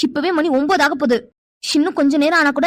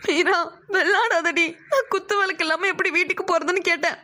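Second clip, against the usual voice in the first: crying; 5 dB quieter than usual. Acted. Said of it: "அழுதுட்டு இருக்கா".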